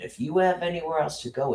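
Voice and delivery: mock imitation. Staff repeating a line to shelter residents, mockingly imitated.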